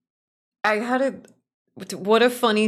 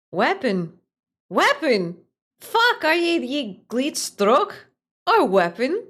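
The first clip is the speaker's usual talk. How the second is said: shouted Scottish voice, higher; Scottish accent; 7 semitones higher, 5 dB louder, slower than usual. Acted. Streamer voicing the Scottish character calling his pet, loud Scottish. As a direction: bark it in a broad Scottish accent. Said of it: "do it in the right accent".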